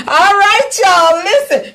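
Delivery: loud, high call for attention. Real, not acted. Calling the audience back to order.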